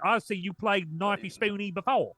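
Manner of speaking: amused teasing. Real, not acted. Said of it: "I was just about to say that".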